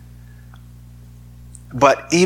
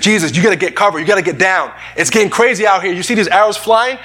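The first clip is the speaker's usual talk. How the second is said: a soldier shouting a warning to Jesus in battle; urgent warning; 4 semitones higher, faster than usual. Retold or imitated. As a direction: call out over the noise of a battle. Soldier urging Jesus to take cover.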